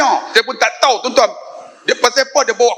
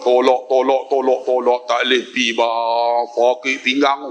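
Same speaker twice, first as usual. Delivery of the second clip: mock weariness; 7 semitones lower than usual. Retelling weary pushing of wheelchair.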